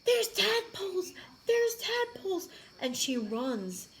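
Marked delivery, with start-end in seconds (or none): 0.1-2.5 put-on high, slow panicky kid's cry; mock scared scream. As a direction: imitate a frightened child shrieking about tadpoles. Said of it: "she starts screaming".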